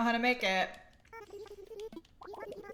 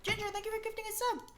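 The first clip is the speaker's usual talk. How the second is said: talking while eating hungrily; wolfing down food; 4 semitones higher, 3 dB quieter, faster than usual. Real, not acted. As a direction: mouth full of food. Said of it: "Sorry, I'm starving".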